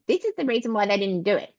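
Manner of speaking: fast, mocking know-it-all voice; mocking the pundits. Mocking election pundits explaining the loss, fast and smug. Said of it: "everybody comes out of the woodwork and goes".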